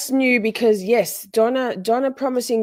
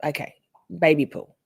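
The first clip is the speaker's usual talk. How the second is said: whispered aside; 2 semitones lower than usual. Real, not acted. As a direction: whisper it under your breath.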